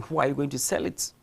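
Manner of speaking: ordinary talk, nothing marked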